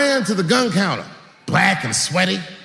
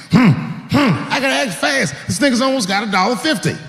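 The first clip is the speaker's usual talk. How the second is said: hyped action narration; 6 semitones higher than usual. Acted. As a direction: build it up like a movie shootout. Acting out shooting intruder.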